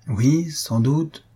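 embarrassed. A narrator's reading. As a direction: agree awkwardly, stalling. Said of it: "dit Albina avec embarras".

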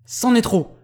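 high, loud cry of fury; strangled angry cry. A narrator's reading. Astronomer at the end of his patience, strangled cry. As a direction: cry out as if choking with rage. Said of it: "cria d'une voix étranglée".

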